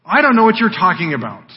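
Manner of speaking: Peter's reply. Acted. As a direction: deny knowing, punching the first words. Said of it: "responds to her".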